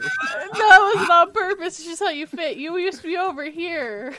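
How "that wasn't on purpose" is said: loud, slow, higher protest; mock-defensive shout. Real, not acted. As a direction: shout the denial half-laughing. Denying with a laugh.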